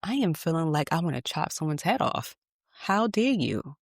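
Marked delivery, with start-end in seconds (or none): 2.7-3.8 slow, high, offended mock outrage; indignant. Rejected job seeker fuming at interviewer, mock indignant. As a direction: drag it out, scandalized. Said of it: "is how I'm thinking".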